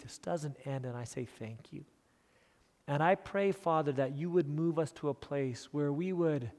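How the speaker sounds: hushed, earnest prayer falling away at phrase ends; sincere prayer. Real, not acted. Preacher thanking Heavenly Father for his congregation, sincere prayer. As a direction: pray softly and gratefully to God.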